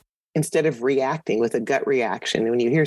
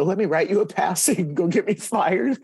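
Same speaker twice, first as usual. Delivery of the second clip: reading her line back through a laugh; laughing quote; 3 semitones higher than usual. Real, not acted. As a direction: chuckle your way through the quote. Quoting her reply while laughing.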